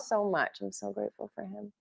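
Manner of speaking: quietly choked up with gratitude; tearful gratitude. Real, not acted. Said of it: "I'm gonna cry".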